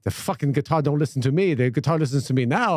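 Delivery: lightly imitated rock-star boast; mock guitar-hero swagger; impression of a guitarist. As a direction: boast in a put-on foreign accent. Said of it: "He's like".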